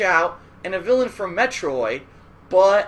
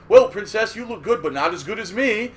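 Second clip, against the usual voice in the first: vain Simon; 2 semitones higher, 4 dB louder than usual. Retold or imitated. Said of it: "he would say".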